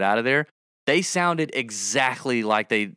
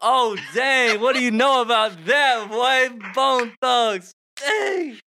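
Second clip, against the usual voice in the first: hyped up after rapping; excited; 11 semitones higher, slower than usual. Real, not acted. Excited reaction to the song.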